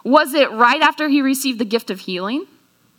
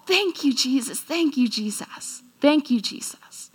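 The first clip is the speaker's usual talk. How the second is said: softer, reverent thanks; quiet grateful prayer; hushed thanks; 6 dB quieter than usual. Acted. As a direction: murmur thanks in awe. Healed believers thanking Jesus.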